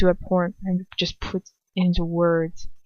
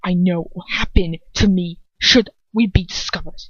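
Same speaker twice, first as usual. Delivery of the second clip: louder, clipped comeback to his father; bitter retort; 6 dB louder than usual. Acted. Draco snapping back at his father, louder. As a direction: snap back defensively.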